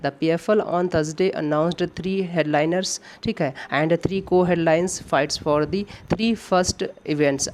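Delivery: reading the sentence out word by word, very slowly; slow dictation read. Shown as a demonstration. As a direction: spell out the question sentence for students. Reads exam sentence aloud slowly. (धीमी गति से वाक्य पढ़ना)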